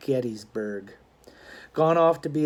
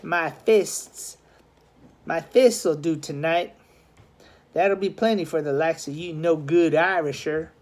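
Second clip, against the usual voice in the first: scoffing. Acted. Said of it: "The Dead Rabbit scoffed".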